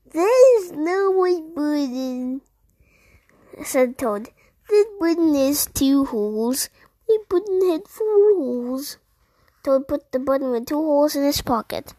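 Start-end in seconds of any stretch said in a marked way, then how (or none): 0.1-2.4 protesting toad, pitched up. Acted. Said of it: "voicing Toad". 4.7-9.0 lightly voiced protesting toad; mildly put-out toad, stretching the last words; a touch of toad voice, rising in protest. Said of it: "voicing Toad".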